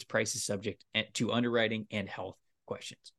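brisk sponsor read; podcast ad read. Acted. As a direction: read the ad copy like a host spot. Host reads sponsor ad.

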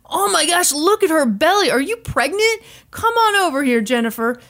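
high-pitched, cooing DJ imitation; creepy fake concern. DJ calling the contestant over, creepy mock concern. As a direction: fawn over her in a creepy, put-on high voice. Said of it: "that creepy thing".

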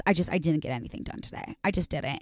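quiet, mopey mom voice, a hint of it; mimicking mom. Imitating her mom on the escalator, mildly mopey. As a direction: sigh it out like a defeated mom. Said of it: "she looks at us and she goes".

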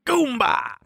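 shouted high joke answer; punchline shout. Acted. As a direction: blurt it out like a game-show answer.

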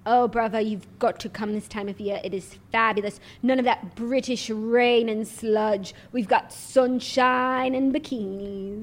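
lightly posed royal, slowed at the end; Prince Harry. Pretend. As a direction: savour the sunny brag. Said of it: "I'm Prince Harry".

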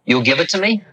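a gentle hint of the old teacher's voice; light imitation of an old Indian holy man; old guru asking. Guru asks for the car.

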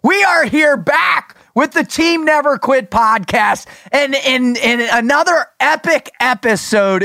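booming circus ringmaster welcome. Pretend. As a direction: announce it like opening the big top. Mock circus-style show opening.

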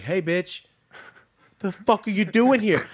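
loud shouting at a stranger; retold yell. Shouting at the woman in the field, loud and rough. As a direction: yell it out, confronting her.

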